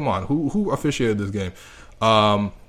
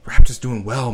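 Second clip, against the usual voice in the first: cheer; 10 dB louder than usual. Real, not acted. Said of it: "cheering his team".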